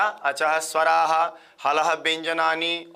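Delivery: drawn-out chant of the two sutras; slow recited sutra. Shown as a demonstration. Teacher repeating sutras for memorising, slow chant. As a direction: spell the rule out very slowly. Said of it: "क्या?".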